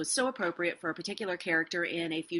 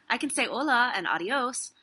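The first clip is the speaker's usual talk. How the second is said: imitating a coy actor, higher pitched; lightly mocked coyness; 5 semitones higher than usual. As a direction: play it coy and cute, voice lifted. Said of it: "she answered coyly".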